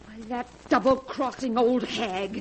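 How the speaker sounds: bitter, dragging out each word; slow bitter curse. Acted. Wife cursing the aunt who tricked her, slow bitter curse.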